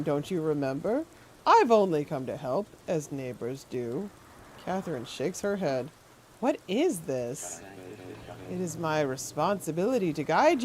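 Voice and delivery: lightly voiced sinister old man, syrupy; a hint of a creepy gentleman. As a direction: purr it like a courteous creep. Voicing NPC dialogue.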